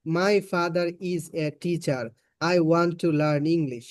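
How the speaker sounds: slow, word-by-word Bengali-accented English; mock learner's English in a heavy Bengali accent; Bangla-accented English. Shown as a demonstration. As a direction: demonstrate uncorrected Bangladeshi English, syllable by syllable. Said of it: "এইভাবে যদি ইংলিশটা বলি".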